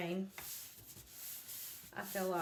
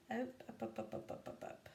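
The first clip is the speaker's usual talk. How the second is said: fading to a whisper; 7 dB quieter than usual. Real, not acted. Coaxing transfer upward, fading.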